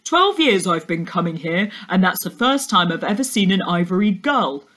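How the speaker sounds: a hint of an odd, chatty stranger calling out; lightly voiced birdwatcher. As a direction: call across to the girl, mildly odd and friendly. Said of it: "when he called out".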